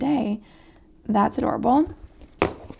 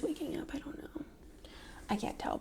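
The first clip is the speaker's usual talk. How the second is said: whisper; 5 semitones higher, 16 dB quieter than usual. Real, not acted. Listening for waking child.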